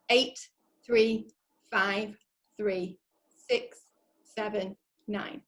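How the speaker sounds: slow, evenly spaced robot digits; robotic voice. Shown as a demonstration. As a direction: read each number like a machine. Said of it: "I'm gonna do robotic voice as well".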